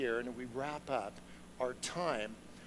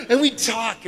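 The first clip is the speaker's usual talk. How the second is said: words bubbling with laughter, higher and louder; laughing; 6 semitones higher, 10 dB louder than usual. Real, not acted. Still laughing as he tells the congregation about Carol.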